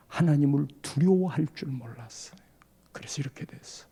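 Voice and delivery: low breathy whisper, barely voiced; whispered confession. Fallen preacher admits his fault to the elder, whispering. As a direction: confess it in a hush, ashamed.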